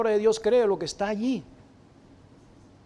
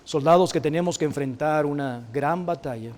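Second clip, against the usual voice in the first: earnest prayer voice, lower and measured; heartfelt prayer; 4 semitones lower than usual. Acted. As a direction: pray aloud for the congregation. Leads a closing prayer. (oración sincera y pausada)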